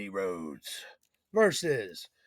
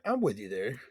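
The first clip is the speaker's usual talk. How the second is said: soft, lower repeat; quiet echo; 6 semitones lower, 7 dB quieter than usual. Acted. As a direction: murmur it back. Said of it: "I'm, I'm with you there".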